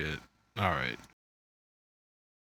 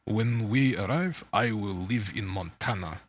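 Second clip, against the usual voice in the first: put-on Russian accent. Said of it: "Sam Neill did a hell of a good job with a Russian accent".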